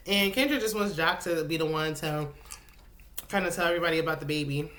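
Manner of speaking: talking around a cough drop; mouth full. Real, not acted. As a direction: lozenge in the mouth while talking. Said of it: "I got a halls in my mouth".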